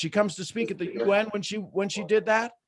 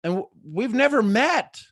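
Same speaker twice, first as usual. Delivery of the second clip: ordinary talk, nothing marked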